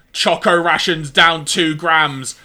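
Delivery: slow, warbled machine voice. Retold or imitated. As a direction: drag it out, warbling like a glitching computer. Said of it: "in kind of a warbled voice".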